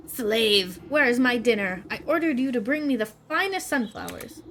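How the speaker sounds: a haughty queen demanding her dinner; shrill bee queen. Acted. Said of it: "A shrill voice pierces the meadow".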